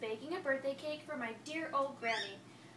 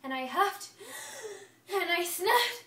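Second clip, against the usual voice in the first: huffing up to a sneeze, rising louder; building sneeze; 6 semitones higher, 5 dB louder than usual. Acted. Wolf winds up a sneeze at the pig's house, building. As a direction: breathe in harder and harder before the sneeze.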